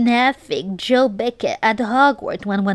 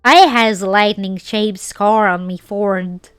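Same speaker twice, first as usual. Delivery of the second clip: Southern accent. Shown as a demonstration. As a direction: keep the hammed-up Southern accent going through the story. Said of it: "read it with a American Southern accent".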